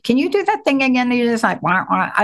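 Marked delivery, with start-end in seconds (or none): 1.6-2.1 mock sad-trombone "wah, wah"; imitated wah-wah. Host echoing guest's expression back, imitated wah-wah. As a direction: imitate a deflated wah-wah noise. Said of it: "I love that expression".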